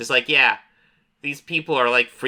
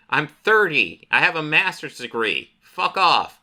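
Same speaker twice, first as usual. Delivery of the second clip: mock-indignant, pitched up; indignant retort; 5 semitones higher than usual. Goth librarian to her critic, mildly indignant. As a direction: push back with raised, affronted pitch.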